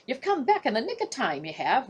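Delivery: a hint of a calling warder; called out. Warder calls to Marsh returning. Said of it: "Warder Thomas called".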